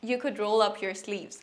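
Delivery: each word said slowly for learners; slow model sentence. Shown as a demonstration. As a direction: spell it out slowly for the class. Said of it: "ধরেন, বন্ধুকে বলছেন".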